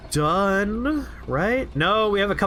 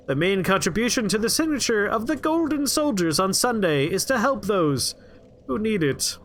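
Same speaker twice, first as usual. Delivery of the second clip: higher-pitched, animated reading voice; dramatic read-out; 5 semitones higher than usual. Acted. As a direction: read it out like a grand game narrator.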